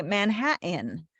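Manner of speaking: "Manhattan" with the T swallowed; slow demo of Man-ha'-in; Northeast pronunciation. Shown as a demonstration. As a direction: catch in the throat for the T in "Manhattan". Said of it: "that's what you do in the Northeast".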